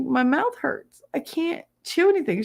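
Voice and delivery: put-on whiny kid voice. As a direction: whine it like a hurting thirteen-year-old. Quoting hurt thirteen-year-old self.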